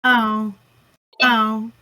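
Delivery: deadpan mock plea for help; monotone pain impression. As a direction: imitate a machine reporting that it hurts. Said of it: "That's just how Sierra's response to pain now".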